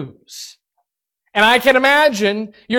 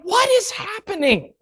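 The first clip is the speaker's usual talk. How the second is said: high, baffled, softer question; bewildered; 9 semitones higher, 4 dB quieter than usual. Retold or imitated. Preacher imagining his own panic as the coal comes, baffled and high. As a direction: gasp it out in confusion. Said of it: "I would be sitting there going".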